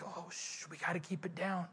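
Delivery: breathy hush, voice dropped right down; hushed whisper. Retold or imitated. Disciples hushing each other beside sleeping Jesus, whispering. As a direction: shush the others so he can sleep. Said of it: "the disciples are probably like".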